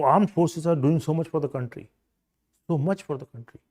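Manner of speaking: "so much" stressed to drive the point. Shown as a demonstration. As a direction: lean on "so much" for emphasis.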